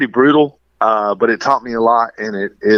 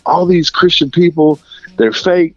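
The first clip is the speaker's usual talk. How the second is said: mildly upset, higher-pitched complaint; retold tearful outburst; 4 semitones higher than usual. Venting to his mom about fake Christian people, mildly worked up. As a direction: re-enact a distressed rant without real tears. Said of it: "crying and screaming".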